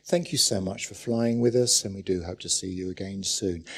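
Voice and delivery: reassuring pilot announcement. Retold or imitated. Preacher imitating a pilot reassuring passengers, soft and quick. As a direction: soothe the passengers like a pilot on the intercom. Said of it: "pilot gives that reassuring message over the loudspeaker".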